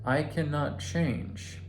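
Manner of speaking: slow self-reminder. Retold or imitated. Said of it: "reminding yourself".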